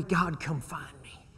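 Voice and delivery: quiet prayer. Shown as a demonstration.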